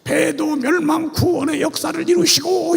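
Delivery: imitated prayer. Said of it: "이렇게 기도하더라고".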